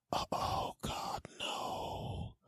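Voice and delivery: whispered, drawn-out dread; hushed private despair, acted; dismayed whisper. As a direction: groan it under your breath. Acted dismay at advice request.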